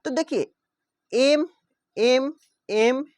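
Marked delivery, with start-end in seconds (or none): 1.1-3.0 एम said loud and drawn out; teacher pointing out the repeated एम; stressing the M sound. Shown as a demonstration. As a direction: hit एम hard, one by one. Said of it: "एम repeat हो रहा है कि नहीं".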